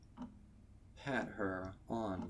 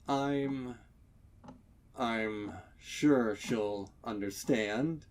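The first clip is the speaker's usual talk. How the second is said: shaky voice; 2 semitones higher, 7 dB louder, slower than usual. Acted. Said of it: "he answers in a shaky voice".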